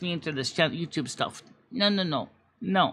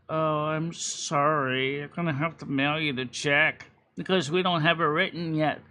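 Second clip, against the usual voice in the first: lightly voiced clerk; 4 semitones lower, 4 dB quieter than usual. Imitating apologetic drop-off guy.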